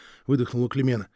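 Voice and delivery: ordinary delivery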